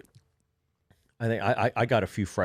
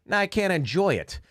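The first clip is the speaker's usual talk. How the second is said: put-on kid's deadpan complaint; 11 semitones higher than usual. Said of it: "He's like".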